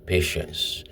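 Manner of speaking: softly breathed single word; soft meditation word. Shown as a demonstration. Meditator saying the chosen word to oneself, softly. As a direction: say it under the breath, unhurried. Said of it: "I speak it after several pauses".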